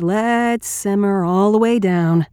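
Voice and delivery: slow, tempered command; softened Marine voice. Acted. Catching up with a hysterical woman, slow softened command. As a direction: ease her down slowly. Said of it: "I tempered it a little bit, softened it".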